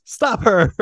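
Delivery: robot voice. Retold or imitated. Robot body voiced in retelling.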